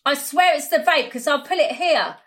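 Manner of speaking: speaking through a gap in the teeth; a tooth missing, slight lisp. Real, not acted. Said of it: "my tooth came out".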